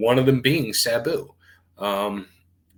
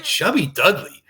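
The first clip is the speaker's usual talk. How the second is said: whispered, higher incredulous question; surprised whisper; 7 semitones higher, 6 dB louder than usual. Retold or imitated. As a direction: gasp the name as if you can't believe it. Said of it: "He's like".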